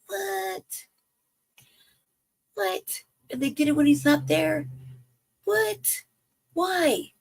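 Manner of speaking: repeated high "what"; high-pitched incredulous outburst; disbelief. Real, not acted. Disbelief at polo raid.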